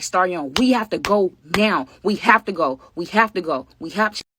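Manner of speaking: urgent repeated plea, half-shouted in retelling; retold screaming. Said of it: "She's just screaming".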